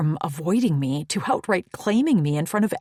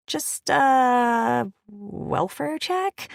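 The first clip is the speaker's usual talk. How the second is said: nervous; 9 semitones higher, 4 dB louder, much slower than usual. Acted. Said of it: "my friend swallowed".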